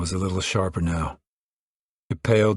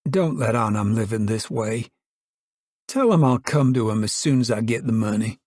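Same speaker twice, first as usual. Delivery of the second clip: lightly voiced lonely drifter, resigned; Muley, lonely drifter; 5 semitones higher than usual. Drifter tells Noah and Ma about his lonely life, resigned.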